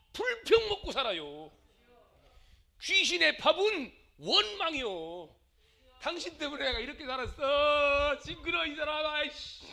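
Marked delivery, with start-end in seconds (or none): 6.0-9.7 raised, higher-pitched mock complaint; resentful spouse. Preacher acting out a spouse's grievance, resentful. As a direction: act out a fed-up spouse blaming the other.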